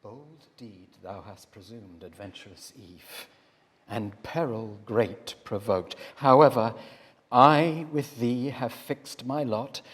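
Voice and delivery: steady, accepting, gently resolved; calm mood. Acted. Adam turns calmly to Eve, accepting her fate as his own. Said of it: "thus in calm mood his words to Eve he turned".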